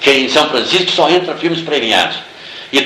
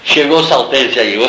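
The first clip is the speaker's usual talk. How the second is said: laughing imitation of a rival's dismay; mock dismay; slower than usual. Rival director sees him arrive once more, laughing mock dismay. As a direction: groan the greeting through a laugh. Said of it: "ele fez assim".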